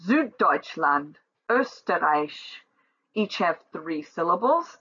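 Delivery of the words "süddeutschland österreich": Süddeutschland and Österreich said slowly, first syllable leaned on; stress on first syllable. Shown as a demonstration. Teacher models first-syllable stress, slowly. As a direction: draw out Süddeutschland, lean on SÜD and Ö. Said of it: "the first syllable is accentuated".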